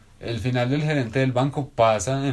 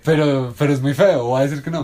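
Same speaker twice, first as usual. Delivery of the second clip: insistent protest; 3 semitones higher, 6 dB louder than usual. Real, not acted. Insisting in a heated disagreement.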